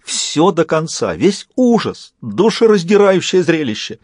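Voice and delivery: slow, high, melodramatic lament; overplayed mock grief; fake stifled sobbing. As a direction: feign heartbreak, choking back phony sobs. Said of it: "как давит фальшивое же рыдание".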